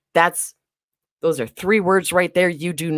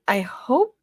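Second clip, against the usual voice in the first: laughing tease; 6 semitones higher, 6 dB louder than usual. Real, not acted. Teasing quip.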